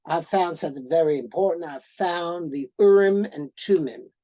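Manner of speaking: hint of a Southern accent from an excited visitor. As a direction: lightly mimic a Southern archaeologist's accent, brisk and eager. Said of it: "told me with his heavy Southern accent".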